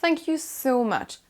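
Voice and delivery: "so" drawn out and leaned on in "so much"; slow "Thank you", weight on "so much"; stress on SO MUCH. Shown as a demonstration. Teacher shows how to intensify thanks, stressing "so much". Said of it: "d'accentuation sur le so much".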